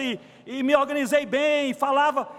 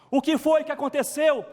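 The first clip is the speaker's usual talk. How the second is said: emphatic pulpit question; 3 semitones higher than usual. Real, not acted. Preacher demanding an answer from the congregation, emphatic and raised.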